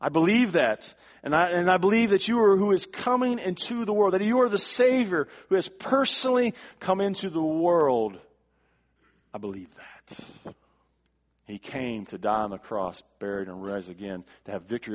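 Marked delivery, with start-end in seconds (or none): 0.0-0.9 firm, raised declaration; loud confident affirmation of faith; emphatic. Acted. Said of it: "He says". 1.2-8.2 loud, high, ringing declaration of faith; Martha's confession preached at full force; fervent loud confession. Acted. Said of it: "He says". 9.3-10.6 softer, lower, slower and intimate; quiet sincere confession after the fervor; hushed affirmation. Acted. Quiet close to the loud confession.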